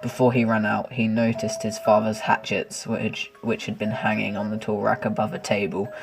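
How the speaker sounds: narrator voice. A narrator's reading. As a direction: read it like a spooky tale. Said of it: "how do you like my, uh, narrator voice".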